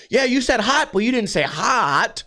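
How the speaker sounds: hammed-up whine leaning on hot; mock whiny stress. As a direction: stress on the second hot, slowed down. Mocking customer continues.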